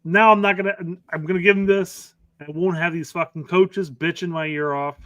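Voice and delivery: acting out an irritated coach; imitated annoyance. Coach fed up with complaining coaches, mildly pissed. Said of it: "he's, he's clearly pissed".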